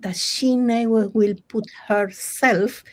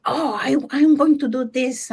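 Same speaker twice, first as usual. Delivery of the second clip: higher, eager quoted voice; imitated excitement; 4 semitones higher than usual. Rabbit keen on her parking job, mildly excited. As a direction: act out her excitement, lightly. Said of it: "she do the excitement, you know, like".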